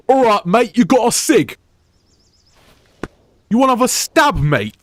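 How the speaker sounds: rough British stereotype. Retold or imitated. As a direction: ham up a cheeky London lad. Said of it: "Or it's".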